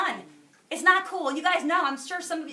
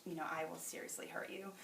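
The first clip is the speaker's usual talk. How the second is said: mock threat; 6 semitones lower, 13 dB quieter than usual.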